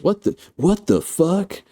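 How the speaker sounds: high-pitched, drawn-out disbelief; mock shock. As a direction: squeal it in acted alarm. Acting shock at acid melting floor.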